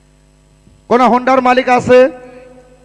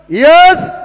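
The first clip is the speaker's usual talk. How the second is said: excited yes; 6 semitones higher, 5 dB louder than usual. Real, not acted. Winning number completed.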